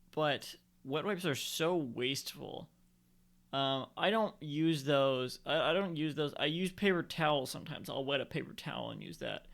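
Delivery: drifting off mid-sentence; nodding off. Real, not acted. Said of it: "I was falling asleep a second ago".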